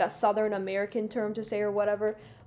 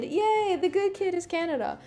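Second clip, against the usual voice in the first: tag; 7 semitones higher than usual. Pretend. Cheering for own country as good kid.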